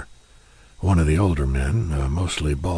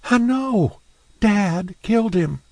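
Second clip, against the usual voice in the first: much higher woman's voice, flat admission; Rachel, blunt; 14 semitones higher, 4 dB louder than usual. Acted. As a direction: state it plainly.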